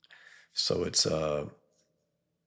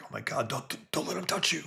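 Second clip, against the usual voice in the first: much higher, soft frightened squeal; mock panic; 9 semitones higher, 5 dB quieter than usual. The cameramen panic about Pigman touching them, high mock squeal.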